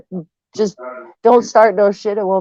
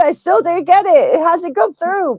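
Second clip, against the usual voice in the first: mocking imitation; 8 semitones higher than usual. Mocking a chat reply.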